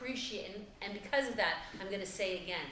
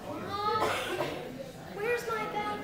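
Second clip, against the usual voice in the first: calling out; 11 semitones higher, slower than usual. Real, not acted. Calls out to her mother.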